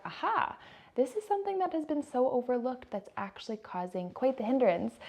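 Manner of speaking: lightly acted discovery, lifted in pitch; sudden realization. Listener spotting an overlooked hindrance, lightly acted realization.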